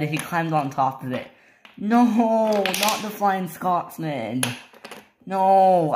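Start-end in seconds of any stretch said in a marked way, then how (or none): 1.8-5.9 high, slow acted wail; drawn-out dismay. Topham Hatt lamenting the Flying Scotsman, drawn-out wail. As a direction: wail it in dismay, stretching the words.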